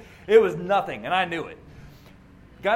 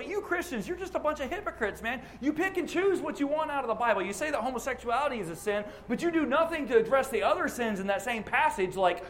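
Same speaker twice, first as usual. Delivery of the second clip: accusing critic. Retold or imitated. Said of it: "hear people accuse us of".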